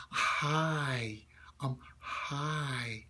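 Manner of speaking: put-on breathy, whispered little-kid greeting; younger kid. Shown as a demonstration. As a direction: push air through it like a small child. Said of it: "how much air is coming out".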